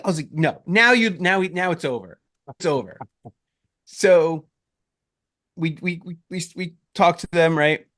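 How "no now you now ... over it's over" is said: exasperated protest. Retold or imitated. Scolding sister about jinx.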